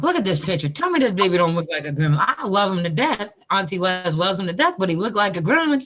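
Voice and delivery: mock Auntie Les gushing over the photo; imitating Les. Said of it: "And Les was like".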